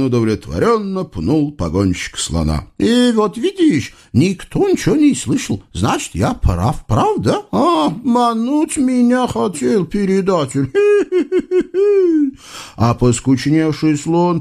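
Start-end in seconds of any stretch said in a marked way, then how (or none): 2.8-10.7 high, singsong eastern tyrant voice; comic sultan. Acted. 10.8-12.3 high, gleeful tyrant laugh; sultan's gloating laugh. Acted. Sultan triumphant.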